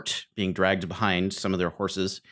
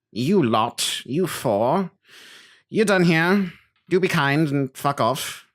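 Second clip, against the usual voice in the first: smug, high, condescending noble; snooty nephew voice; 5 semitones higher than usual. Acted. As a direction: dismiss the peasants with fake politeness. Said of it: "walks over to his uncle and says".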